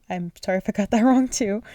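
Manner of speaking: sorry, with a laugh on wrong; laughing apology. Real, not acted. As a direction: giggle through the apology. Laughing apology over name reading.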